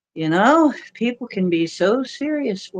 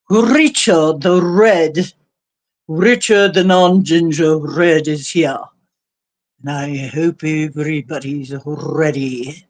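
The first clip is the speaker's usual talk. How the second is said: put-on English accent, lower and measured; mock English announcer accent; 4 semitones lower, 3 dB louder than usual. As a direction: lightly play at an English accent. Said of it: "not a bad English accent there".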